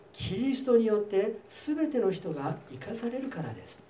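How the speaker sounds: steady, solemn reading of the Bible passage; scripture reading. Acted. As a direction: read the verses out to the congregation. Reads First Corinthians passage aloud.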